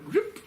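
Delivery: high, sudden noise of bars closing; imitated snapping noise. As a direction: make the sound of bars zipping shut.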